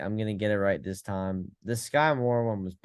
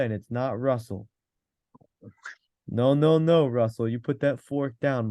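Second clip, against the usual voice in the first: put-on New York Italian accent; Italian pizza guy voice. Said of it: "bad at the Italian accent".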